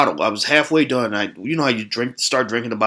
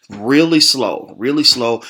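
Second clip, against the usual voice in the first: drawn-out emphasis; 4 dB louder, slower than usual. Real, not acted. Describing old lady's slow walk.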